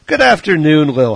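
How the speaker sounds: put-on loud, high, horrible Irish accent; hammed-up Irish accent. Host greets caller in a bad Irish accent. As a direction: boom it out in a bad Irish brogue. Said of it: "my horrible Irish accent".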